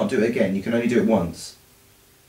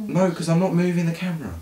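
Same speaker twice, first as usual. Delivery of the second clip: laughing; 6 semitones higher, faster than usual. Real, not acted. Laughing while refusing.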